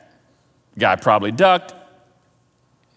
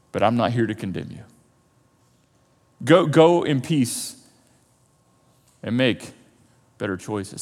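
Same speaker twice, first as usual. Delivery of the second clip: softer, lower, tender reassurance; gentle reassurance; 6 semitones lower, 4 dB quieter than usual. Acted. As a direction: gently let them off the hook. Jesus gently reassures accused woman.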